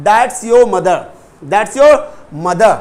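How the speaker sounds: drilled "that's" as one syllable; contracted that's. Shown as a demonstration. Teacher leads students repeating the phrase, contracted "that's". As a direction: join "that's" to your, for repeating. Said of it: "That is को बोल देंगे that's".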